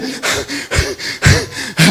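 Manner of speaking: heavy acted gasps for air; exhausted panting. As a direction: pant as if worn out from a fight. Acts out the exhausted angel arriving. (jadeo de cansancio actuado)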